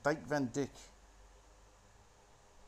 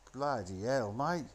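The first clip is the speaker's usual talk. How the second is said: lightly put-on mock Cockney; bad Cockney accent; slower than usual. Commentator mocking Don Cheadle's film accent, bad Cockney. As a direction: imitate an actor's dodgy Cockney. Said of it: "That's my impression of his bad Cockney accent".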